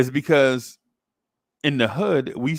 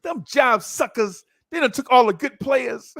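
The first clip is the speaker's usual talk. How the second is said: put-on old-school kid slang; 10 semitones higher than usual. Kid telling the neighbor who took the players, high sulky. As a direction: grumble like a kid who got robbed. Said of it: "this is the way we used to talk".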